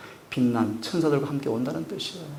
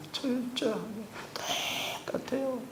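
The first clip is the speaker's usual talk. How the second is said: 철저하게 much higher but softer; high soft echo; 10 semitones higher, 8 dB quieter than usual. Real, not acted. Preacher echoing his point, high hushed 철저하게. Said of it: "역사는 철저하게 반복돼요".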